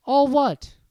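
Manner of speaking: All what? asked innocently; puzzled Harry. Acted. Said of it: "asked Harry".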